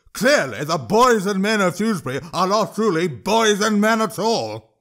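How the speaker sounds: a troll playing to the crowd; high scornful troll voice. Troll declares to the hall.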